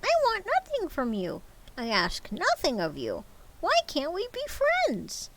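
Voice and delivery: high, cracking plea; pleading nephew. Acted. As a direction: beg your uncle warmly.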